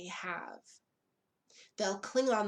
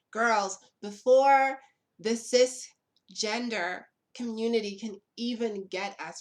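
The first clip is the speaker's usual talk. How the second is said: loud rallying cry; 2 semitones higher, 9 dB louder than usual. Real, not acted.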